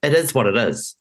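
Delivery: a light imitation of a broad Kiwi twang; light mock Kiwi twang; twangy Kiwi accent. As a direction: mimic the politician's casual Kiwi shrug, lightly. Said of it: "in his twangy Kiwi accent".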